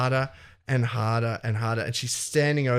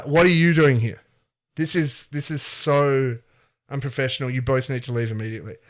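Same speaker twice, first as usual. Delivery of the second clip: stern scolding; 4 dB louder than usual. Acted. Principal scolds both teachers.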